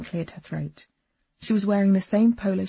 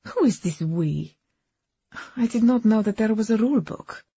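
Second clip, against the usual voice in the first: put-on Eastern European accent; 4 semitones higher, 4 dB louder than usual. A narrator's reading. Agnes voiced with accent.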